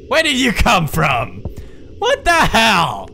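high, loud, indignant alarm; startled shout. Real, not acted. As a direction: shout at something that jumped out. Startled by a sudden appearance.

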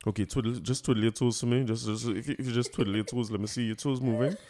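lightly voiced proper-English doctor giving instructions; serious doctor mode. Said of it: "he put on doctor face".

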